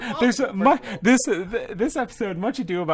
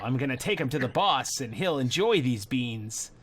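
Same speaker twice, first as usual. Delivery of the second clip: lightly voiced Scud, drawing out phrases; measured, lightly put-on character talk; 3 dB louder than usual. Scud fobs Jimmy off about beans, lightly put-on voice. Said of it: "this is clearly a different voice".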